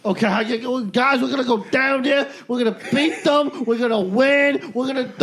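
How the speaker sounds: lightly put-on Brooklyn accent; rally the guys like a Brooklyn soldier. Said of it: "Do the Brooklyn accent".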